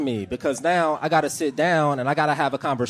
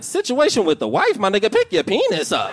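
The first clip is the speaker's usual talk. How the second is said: higher, mock outraged disbelief; incredulous; 5 semitones higher than usual. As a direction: needle your buddy in disbelief. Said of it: "I was like".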